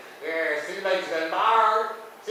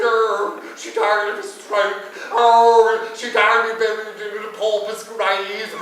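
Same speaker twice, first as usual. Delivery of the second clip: mock crying; 4 semitones higher, 8 dB louder, slower than usual. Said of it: "He started crying".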